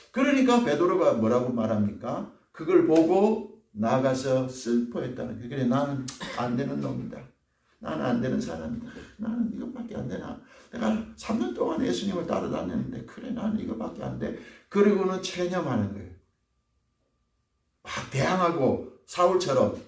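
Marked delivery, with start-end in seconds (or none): 5.5-14.4 soft, sinking self-pity; despairing Peter. Acted. Peter giving up on himself after the rooster, soft despair. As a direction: let it sink into quiet despair.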